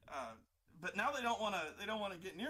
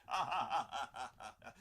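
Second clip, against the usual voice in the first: mocking villain laugh; 5 dB louder than usual. Amused Sith laughs at player.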